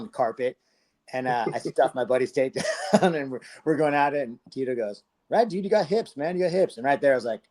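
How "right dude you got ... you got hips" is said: high, impressed voice, lightly done; a hint of a hyped-up fighter; imitating Tito's excited praise. Tito hyping him up after the scramble, high and impressed.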